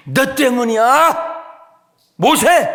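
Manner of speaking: high, loud, drawn-out accusation; blaming shout. Acted. Israelites turn on Moses in the wilderness, blaming shout. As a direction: yell the blame at Moses.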